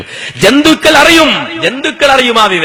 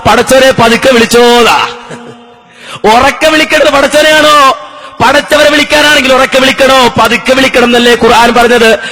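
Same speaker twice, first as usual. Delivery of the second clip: full-force preaching. Acted. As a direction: proclaim it to a crowd, stretching the last words. Argues in preaching voice. (ഉച്ചത്തിൽ നീട്ടിയുള്ള മതപ്രഭാഷണ ശൈലി)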